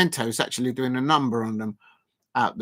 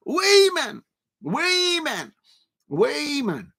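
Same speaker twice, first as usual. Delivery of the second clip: "Wayman" in a much higher, gasped mock Geordie call; Geordie accent; 10 semitones higher, much slower than usual. Streamer hams up a Geordie call to the player. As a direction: put on a hammed-up Newcastle voice. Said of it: "You're doing the Geordie accent".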